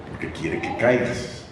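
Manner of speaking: lento y susurrado, sin voz; susúrralo despacio como tentación; susurro. Shown as a demonstration. Susurro del diablo tentador. (susurro lento y sin voz)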